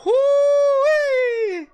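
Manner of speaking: a high, loud whoop of joy; celebration yell at full volume; excited whoop. Real, not acted. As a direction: let out a gleeful whoo-wee. Celebrating the draft pick.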